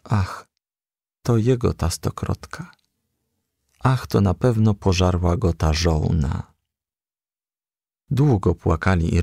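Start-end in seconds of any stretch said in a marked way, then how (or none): none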